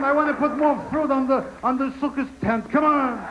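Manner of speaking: put-on high old Jewish gambler calling the dreidel; high, pleading old Jewish man at a game; old Jewish guy. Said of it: "old Jewish guys bent down in the alley".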